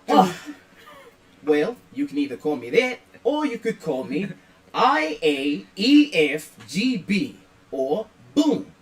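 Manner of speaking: loud, eager little robot introducing itself; excited robot character. Acted. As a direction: boom out the name like a proud robot.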